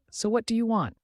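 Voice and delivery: high-pitched, irritated demand; mildly angry, pitched well up; angry question. A narrator's reading. Toad demands what he wants, mildly angry. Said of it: "The toad angrily asked".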